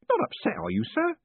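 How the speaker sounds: a beaming prison warden teasing his prisoner; jovial warden. A narrator's reading. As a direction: play the cheerful warden gloating kindly. Warden asks.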